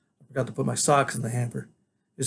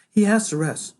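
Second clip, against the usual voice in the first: firm, raised motherly voice; strict mother's order, higher; stern mother; 8 semitones higher, 4 dB louder than usual. A narrator's reading. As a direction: lay down the rule to the boy. Gwen stern to boy.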